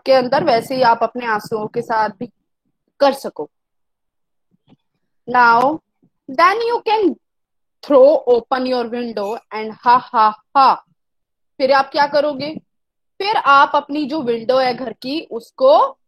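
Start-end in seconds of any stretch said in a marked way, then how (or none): 5.3-10.8 slow, drawn-out poem reading; poem recitation. Acted. Teacher reads the poem aloud to the class, slow and measured. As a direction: read each line slowly, as a poem.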